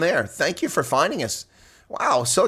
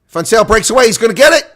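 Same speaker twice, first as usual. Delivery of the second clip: higher, louder shout as he breaks away; excited call; 10 semitones higher, 10 dB louder than usual. Real, not acted. Streamer calls a breakaway try, thrilled shout.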